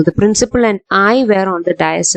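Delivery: slow, careful model sentence; teacher showing the correct sentence; correct example, slow. Shown as a demonstration. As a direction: model the right form slowly. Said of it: "എന്നേ പറയൂ".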